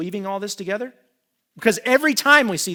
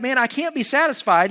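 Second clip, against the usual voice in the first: dramatic sulking; 6 semitones higher, 5 dB louder than usual. Retold or imitated. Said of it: "It's so dramatic".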